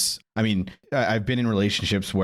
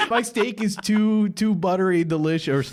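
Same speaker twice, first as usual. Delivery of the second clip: high, whiny nerd voice; sad nerd voice; 7 semitones higher than usual. Acted. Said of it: "sad Chungus nerd voice".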